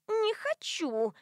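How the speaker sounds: very high, slow whiny "Не хочу"; childish refusal. A narrator's reading. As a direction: dig in your heels like a toddler.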